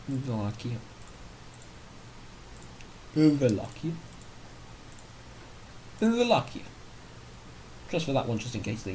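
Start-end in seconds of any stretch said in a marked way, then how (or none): 0.1-0.8 Wallachia said as "Valachia" with a V sound. Shown as a demonstration. Player trying out the name Wallachia, with a V. 3.2-3.9 Wallachia as "oValachia", rising at the end. Shown as a demonstration. Player testing how to say Wallachia, rising. 6.0-6.6 Wallachia as "oValachia", much higher and falling. Shown as a demonstration. Player trying Wallachia in a high squeak.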